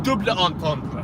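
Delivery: mock French accent on "double entendre". Real, not acted. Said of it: "That's a weird accent you got there for your French".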